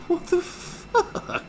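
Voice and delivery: very slow, breath-only gasp; hammed-up whispered shock; stunned disbelief. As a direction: stretch every word out in helpless astonishment. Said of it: "you're just like".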